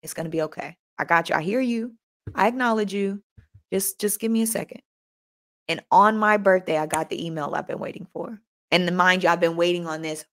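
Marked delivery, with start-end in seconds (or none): 0.0-4.8 God's gentle voice, much softer; soft reassurance. Retold or imitated. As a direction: hush it, calm and patient. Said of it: "that feeling of".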